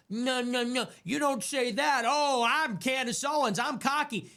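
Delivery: mock her cocky head-bobbing tone; mocking impression. Streamer mocking Candace Owens as cocky, high and sneering. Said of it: "Always bobbing her head".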